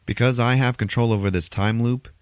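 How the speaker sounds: emphatic retold hero boast; lightly acted gloating, dropping on the final insult; Doctor Strange. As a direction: spell out the trap triumphantly. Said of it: "he's like".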